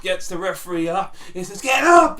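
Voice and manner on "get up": high, loud yelling of get up; high-pitched voice. Retold or imitated. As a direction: shout it up high, like a frantic manager. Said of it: "in his high-pitched voice".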